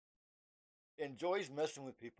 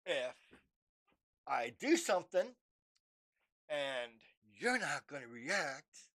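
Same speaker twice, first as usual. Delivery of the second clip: mock entity threat. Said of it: "And it's like".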